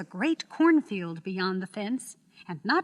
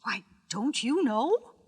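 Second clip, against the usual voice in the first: slow surprised question; slower than usual. Acted. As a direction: sound taken aback. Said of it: "she returned in surprise".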